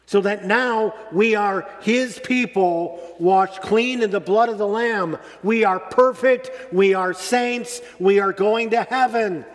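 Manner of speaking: rising joyful fervor. Real, not acted. Preacher to congregation, rising excited fervor. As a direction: proclaim it like good news you can't contain.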